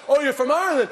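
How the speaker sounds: high, loud gushing tourist. Retold or imitated. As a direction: gush like a thrilled foreigner. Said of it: "it's like".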